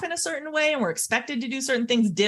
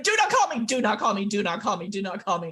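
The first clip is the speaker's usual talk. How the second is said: frantic pleading. Retold or imitated. Student warding off calls from family, urgent repeated plea. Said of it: "like, dying to know".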